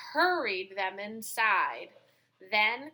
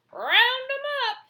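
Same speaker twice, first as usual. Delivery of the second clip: high, loud call to the flock; 8 dB louder than usual. Acted. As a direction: shout it across the field. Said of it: "the farmer called".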